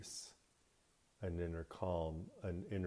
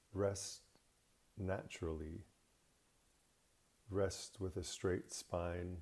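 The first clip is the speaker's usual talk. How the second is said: guided meditation. Acted. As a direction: ease the listener into rest, unhurried.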